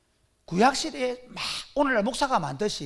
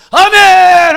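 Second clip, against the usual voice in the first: crowd shout; 9 semitones higher, 20 dB louder, much slower than usual. Acted. Crowd answering the prophet.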